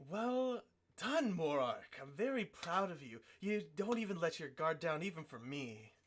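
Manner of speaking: lightly voiced proud old master; proud mentor. Norris praises Morark after the sweep, lightly voiced mentor. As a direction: praise him like an old teacher. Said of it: "he looks at you and he says".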